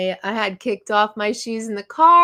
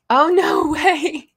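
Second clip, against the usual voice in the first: surprised; 6 semitones higher, 7 dB louder, slower than usual. Real, not acted. Viewer found pet on camera.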